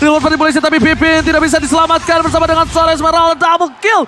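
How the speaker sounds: rising hype, loud and high; fighting game announcer. Acted. Hyped play-by-play of a teamfight.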